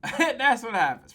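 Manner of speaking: said with a laugh; amused laughing repeat. Real, not acted. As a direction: chuckle it out.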